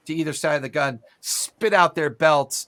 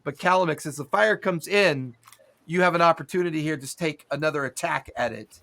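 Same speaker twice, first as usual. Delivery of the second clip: ordinary delivery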